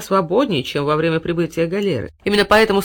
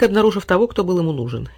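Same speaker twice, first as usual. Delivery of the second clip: usual speaking voice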